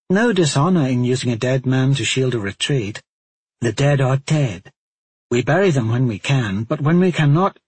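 lightly voiced stern woman; pragmatic, even delivery; matter-of-fact Cote. Cote reasoning calmly.

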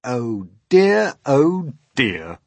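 high, loud swooping chorus of creatures; amused dismay. Acted. Creatures laughing at James's fear, amused dismay.

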